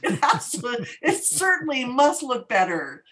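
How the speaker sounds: high, insistent disbelief; indignant retort. Retold or imitated. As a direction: protest it can't be true. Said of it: "I'm like".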